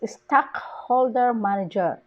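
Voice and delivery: "stockholder" punched on "stock"; stress on STOCK. Shown as a demonstration. Teacher shows compound nouns, stress on "stock". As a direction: hit the start of "stockholder". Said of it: "The stress is on the stock".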